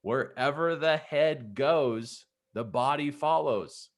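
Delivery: slow, spaced-out mock call; dad's instruction called out at half volume; measured, drawn-out imitation of a distant yell; imitated calling back. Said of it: "he just kept yelling back to me".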